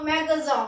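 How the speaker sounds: मेगाज़ा said as meh-ga-ZA, the final n dropped; French word magasin. Shown as a demonstration. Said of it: "तो वो होता है हमारा". (French उच्चारण में मेगाज़ा)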